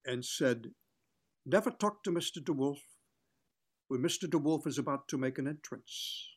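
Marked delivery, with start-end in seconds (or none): 1.5-6.3 haughty clipped third-person warning; mock-grand star, lightly voiced; imitating Billy DeWolf. Actor imitating Billy DeWolf's haughty backstage warning. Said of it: "that's the way he talked".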